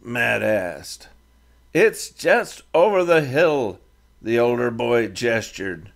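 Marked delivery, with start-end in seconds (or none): 1.7-3.8 higher voiced young rider, halting English; a defiant teen speaking halting English; Comanche boy leader.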